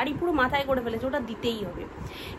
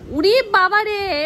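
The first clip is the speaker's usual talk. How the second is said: mock wail; 4 semitones higher, 5 dB louder, much slower than usual. Real, not acted. Exclaims as child climbs on her.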